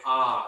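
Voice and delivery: low, open exhaled "ah"; long "ah". Shown as a demonstration. Meditation teacher demonstrating the exhale, low "ah". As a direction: let out a low "ah" on the breath. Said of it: "in your mind say".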